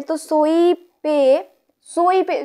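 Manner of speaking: सोई slowly with सो pressed; teacher marking the stressed syllable. Shown as a demonstration. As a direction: lean on सो of सोई. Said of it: "सो पे जोर दे".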